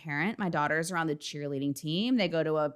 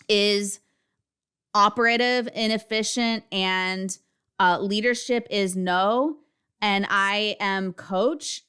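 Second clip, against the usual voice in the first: halting, slow, loud stumbling intro; choking on words; 2 semitones higher, 3 dB louder, slower than usual. Retold or imitated. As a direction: reenact the choked, broken self-introduction. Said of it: "and then I literally choked".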